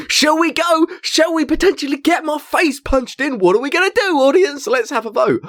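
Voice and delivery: high, bouncy showman teasing; rally the crowd like a cheeky host; playful host. Retold or imitated. Performer stirring the wedding audience into a vote, high playful showman.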